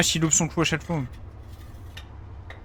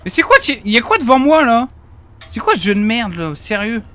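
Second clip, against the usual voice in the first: loud, higher furious rant; raging gamer; 6 semitones higher, 5 dB louder than usual. Real, not acted. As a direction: rage at the game.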